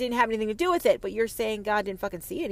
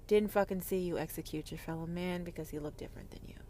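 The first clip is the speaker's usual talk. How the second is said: whisper; 4 semitones lower, 8 dB quieter, faster than usual. Real, not acted. Ranting at the audience about God, whispered. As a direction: drop to a harsh whisper mid-rant.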